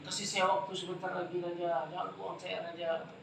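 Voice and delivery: high, loud frantic begging for mercy; loud pleading. Acted. The terrified king begging, loud pleading. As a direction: cry out like a doomed man begging the king.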